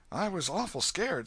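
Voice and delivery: put-on a frightened boy begging for secrecy; scared boy Huck. Huck begs the old man to keep his name secret, high and scared.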